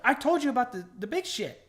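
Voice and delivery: high, loud, exasperated protest; pushing back, voice climbing; retold exasperation. Arguing with the salesman about the car, high and exasperated. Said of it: "I was like".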